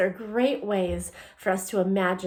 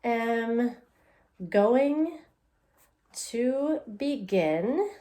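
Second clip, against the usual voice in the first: dictating as writing; much slower than usual. Shown as a demonstration. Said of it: "I'm going to write".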